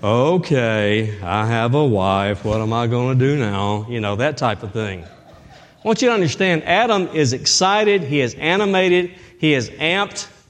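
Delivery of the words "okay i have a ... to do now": low, slow, drawn-out gloomy, mopey drone. Showing how Adam's line should not be read, in a gloomy Eeyore voice. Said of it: "not speaking like Eeyore on Winnie the Pooh".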